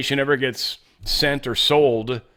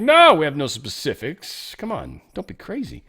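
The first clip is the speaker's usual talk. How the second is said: sacked general; 2 semitones higher than usual. Acted. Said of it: "He's like".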